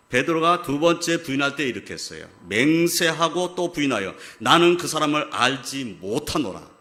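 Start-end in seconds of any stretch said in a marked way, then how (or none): 2.5-6.7 slow, loud, emphatic oath; solemnly retold vow of denial; sworn denial. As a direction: swear it firmly, drawing the words out. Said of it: "맹세했어요".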